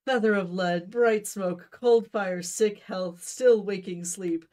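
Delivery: loud, soaring Shakespearean recital; grand declaiming. Acted. Romeo reciting love paradoxes at Benvolio, loud grand delivery. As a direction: proclaim each paradox like a stage actor. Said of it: "still holding your hand out in front of you".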